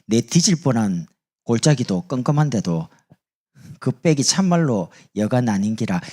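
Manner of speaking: Gyeongsang dialect reading of a psalm; 경상도 사투리. Shown as a demonstration. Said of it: "경상도 사람은 이렇게 말합니다". (경상도 사투리로 시편 낭독)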